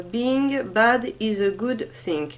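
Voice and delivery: slow, careful English title in a French accent. Shown as a demonstration. Reading a product name to viewers, slow French-accented English. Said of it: "Vous m'excuserez pour mon accent".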